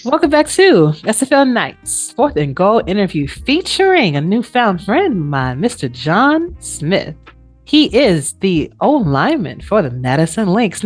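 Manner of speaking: slow, drawn-out announcer welcome with big pitch swings; swooping, stretched-out host announcement; show host intro. Acted.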